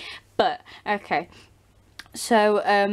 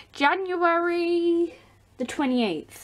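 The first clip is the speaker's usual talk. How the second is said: realising correction; 9 semitones higher, slower than usual. Real, not acted. Correcting the date she got wrong.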